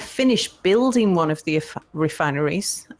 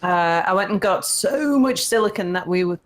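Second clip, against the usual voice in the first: put-on old person voice. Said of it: "that was my old person voice".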